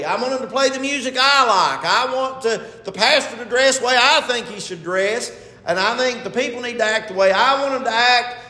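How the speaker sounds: put-on entitlement, leaning on each demand; mock demanding churchgoer. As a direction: imitate someone listing entitled demands. Voices demanding, self-centred churchgoers.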